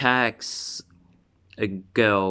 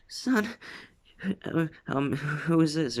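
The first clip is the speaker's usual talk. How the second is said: sudden high-pitched startled question, then settling; a mother jolted at the door, asking her son who the stranger is; 8 semitones higher, 4 dB quieter than usual. Retold or imitated. Mother at the door asks her son about the stranger, high and startled. Mother shocked at vampire guest.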